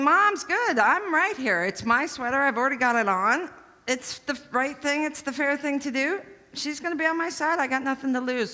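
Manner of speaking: high, self-assured thinking; smug inner voice. Retold or imitated. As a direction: sure she's got it won. Young Chris's confident inner thoughts.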